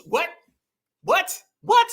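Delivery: high-pitched, disbelieving "what?"; short repeated yelps of disbelief; can't believe what you just heard; incredulous. Real, not acted.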